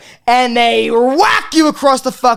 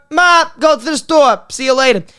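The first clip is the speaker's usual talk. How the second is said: calling out to mom; 5 semitones higher than usual. Retold or imitated. Calling out to mother.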